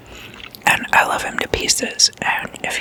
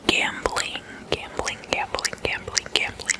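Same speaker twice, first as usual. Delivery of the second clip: trigger word whispered over and over, softer; fading whispered echo; 8 dB quieter than usual. Real, not acted. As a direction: let the repeats fade away in a whisper. ASMR trigger word repeated, fading.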